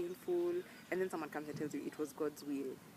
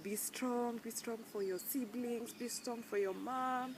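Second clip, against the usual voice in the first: higher, slowly mimicking the stock advice; mock comforter; 7 semitones higher, slower than usual. Mimicking relatives who urge her to be strong, mock. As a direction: parrot the well-wishers' cliché, a bit sing-song.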